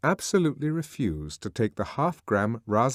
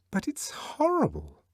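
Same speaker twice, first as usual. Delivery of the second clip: frightened; 11 semitones higher than usual. A narrator's reading. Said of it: "shrinking back from the window".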